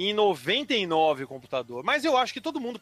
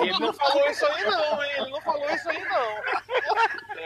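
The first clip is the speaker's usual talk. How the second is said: put-on girl's voice; 6 semitones higher than usual. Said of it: "Aí ela".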